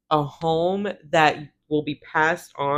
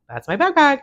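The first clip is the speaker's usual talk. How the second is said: higher and louder, insisting; louder insistence; 9 semitones higher, 5 dB louder than usual. Retold or imitated. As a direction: demand it back, raising your voice. Insists again, escalating.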